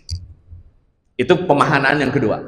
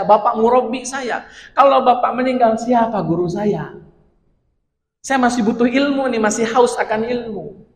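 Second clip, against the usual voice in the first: pleading student; 5 semitones higher than usual. Retold or imitated. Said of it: "kata Salman".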